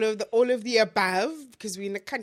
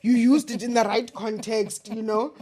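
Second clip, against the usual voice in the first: cheering call; 6 dB louder than usual. Retold or imitated. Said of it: "and I'm like".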